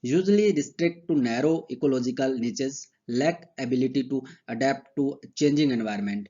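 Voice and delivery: slow, deliberate dictation of textbook lines; dictation reading. Acted. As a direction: read each phrase out slowly so students can write. Slow dictation of English notes. (धीमी आवाज़ में notes लिखवाना)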